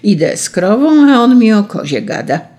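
affronted farmer grumbling aloud; indignant. A narrator's reading. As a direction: protest it loudly, pitch pushed up. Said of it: "rzekł oburzony chałupnik".

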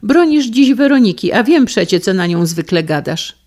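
high, loud accusation; a wife accusing her husband, high and loud. Acted. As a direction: throw his hypocrisy back at him.

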